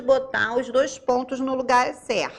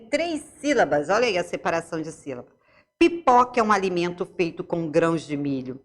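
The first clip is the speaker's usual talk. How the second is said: reading aloud. Acted. Reads dictionary entry aloud.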